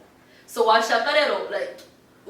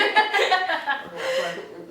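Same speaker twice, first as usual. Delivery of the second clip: real laughter; 5 semitones higher, 4 dB louder than usual. Real, not acted. Laughing at joke.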